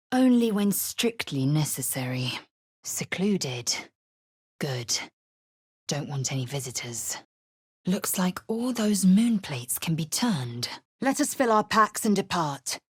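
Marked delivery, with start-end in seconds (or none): 4.6-10.7 hushed unvoiced musing; breathy aside under the breath; whispered aside. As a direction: whisper it to yourself. Aside muttered to self.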